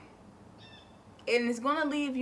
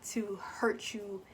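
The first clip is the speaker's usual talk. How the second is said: whispered; 2 semitones lower, 5 dB quieter, slower than usual. Real, not acted. Whispers mid-sentence.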